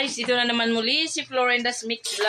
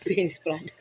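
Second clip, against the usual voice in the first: laughing it out, quietly; 5 semitones lower, 6 dB quieter than usual. Real, not acted. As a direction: giggle through the words.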